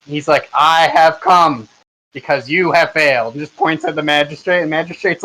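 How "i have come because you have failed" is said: slow, booming proclamation. Acted. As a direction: announce it like a grand commander. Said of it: "he's in a booming voice".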